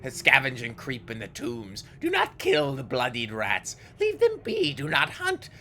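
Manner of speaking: high screaming fury; raging ghoul. Acted. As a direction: scream it in wild rage. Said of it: "shattering the tiles in her rage".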